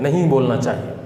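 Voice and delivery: usual speaking voice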